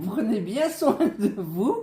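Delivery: corrected with a laugh; laughing through the fix; laughing correction. Real, not acted.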